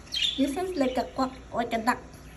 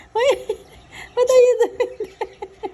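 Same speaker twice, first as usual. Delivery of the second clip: giggling through the question; laughing; 3 semitones higher than usual. Real, not acted. Laughing as she asks the perched parakeet what it's doing.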